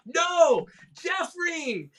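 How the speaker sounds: high, insistent correcting call; exasperated correction. Retold or imitated. Member correcting the director again, exasperated.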